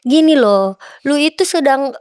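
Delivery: imitated insistent lecturing, mildly forceful; intimidating official. Big official lecturing the athlete, mildly intimidating. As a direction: press the point on them. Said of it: "dua pria besar ngomong dengan nada".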